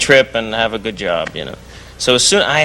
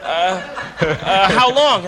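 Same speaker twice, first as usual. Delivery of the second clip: imitating flustered friend; 5 semitones higher, much slower than usual. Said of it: "And he's going".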